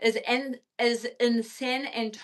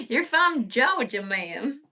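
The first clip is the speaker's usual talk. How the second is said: a tentative attempt at a Southern Georgia drawl, lightly done; playful try at a Georgian accent, not quite landing it; 3 semitones higher, slower than usual. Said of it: "is that a good Georgian accent?".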